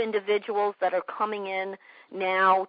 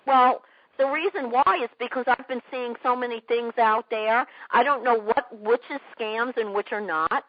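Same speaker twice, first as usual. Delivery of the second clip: quoting a wary prospect; 2 semitones higher than usual. Retold or imitated. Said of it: "They're gonna say things like".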